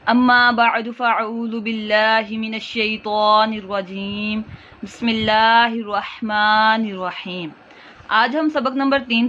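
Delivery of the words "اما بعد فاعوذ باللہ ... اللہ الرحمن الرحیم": slow measured Arabic invocation; formal opening recitation. Acted. Teacher opens the Quran lesson with a slow recitation. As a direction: recite the opening blessing slowly.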